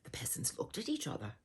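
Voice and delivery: quick hushed whisper. A narrator's reading. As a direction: whisper it conspiratorially. Hushed storytelling aside.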